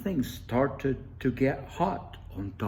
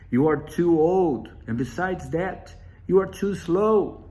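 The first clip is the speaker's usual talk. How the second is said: louder and rising protest; Wolf refusing; 5 dB louder than usual. Acted. Wolf refusing Grandmother Spider, rising protest. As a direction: brush off the old woman firmly. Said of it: "and Wolf said".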